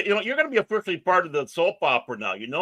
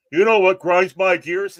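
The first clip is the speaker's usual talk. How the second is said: imitating a rant; 7 dB louder than usual. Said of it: "went literal full-fledged".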